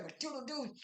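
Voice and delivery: high-pitched mock goodbye; imitated dismissive farewell.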